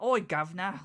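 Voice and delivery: mock Cockney 'Oi, governor'; a light stereotyped Cockney accent; stereotypical Cockney. Listener explaining the Cockney stereotype, light Cockney. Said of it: "the stereotypical".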